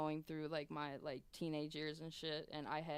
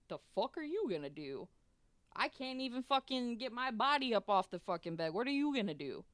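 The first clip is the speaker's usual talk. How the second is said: retold indignant disbelief, higher and louder; incredulous; 6 semitones higher, 6 dB louder than usual. Patient doubting two small nurses can lift her, incredulous. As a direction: scoff in disbelief, voice climbing.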